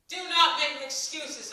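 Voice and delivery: slow, loud, scolding yell. A narrator's reading. Another woman yells at Ellie's excuses, slow and loud. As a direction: bite off each word, slowly and loud. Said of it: "another woman yelled".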